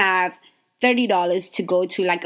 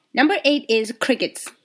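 announcer reveal; 4 semitones higher than usual. Real, not acted. Announcing the next point.

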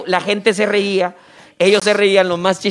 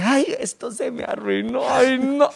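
afeminado de chiste; 4 semitones higher, 5 dB quieter, slower than usual. Retold or imitated. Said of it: "Y ahí dice".

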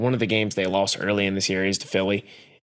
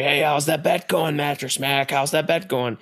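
taunting a rich fan, pitched higher; mock heckling yell; 5 semitones higher than usual. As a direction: heckle him like a gloating rival fan. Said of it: "they start yelling at him, being like".

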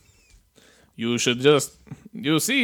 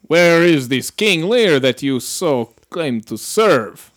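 slow, theatrical questioning; grand interrogator; 3 dB louder, slower than usual. Acted. Captain questioning her captives, slow theatrical. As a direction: lord it over the captives slowly.

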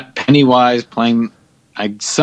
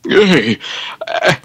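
put-on old borscht belt comic; 3 semitones higher than usual. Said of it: "content Rodney Dangerfield".

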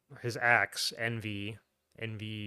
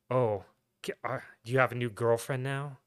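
overly dramatic actress. Retold or imitated. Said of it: "why is she talking like that".

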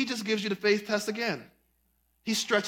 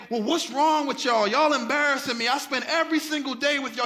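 mock scolding; 3 semitones higher than usual. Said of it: "He doesn't say".

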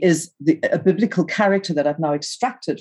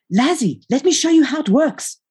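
high-pitched called-out shout; raised, sing-out holler; shout from another room; 10 semitones higher, 4 dB louder than usual. A narrator's reading. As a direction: call across the house to a brother. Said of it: "I shouted from the scullery".

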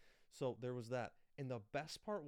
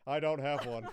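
laughing; 2 semitones higher, 13 dB louder than usual. Retold or imitated. Mocking passengers hiding phones.

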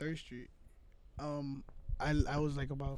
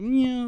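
drawn-out mock meow; imitated cat moan; 8 semitones higher, 9 dB louder than usual. Explaining the moan sounded like a cat, imitated meow. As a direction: imitate a moaning cat, stretched out. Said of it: "sound like a cat".

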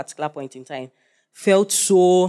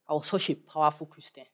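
boastful recollection; 9 dB quieter than usual. Retold or imitated. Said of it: "there's some part of us that is just like".

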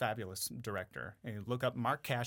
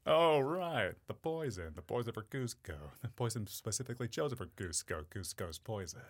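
Kronk impression. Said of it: "It's like".

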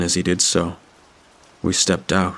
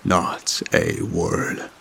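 very low, slow whispered hiss; 11 semitones lower, 3 dB quieter, much slower than usual. A narrator's reading. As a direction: hiss a warning barely voiced. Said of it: "he hissed at me".

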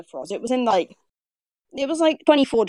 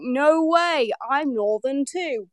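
higher, amazed discovery; retold excitement; 3 semitones higher, much slower than usual. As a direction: retell a thrilled reaction, drawing out the end. Retelling her delighted discovery.

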